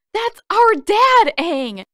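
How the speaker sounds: slow, very high, loud anguished cry; torn from the throat. Acted. Katara cries out to Aang about their dad, anguished. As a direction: rip the words out of your throat. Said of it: "tore their way out of her throat".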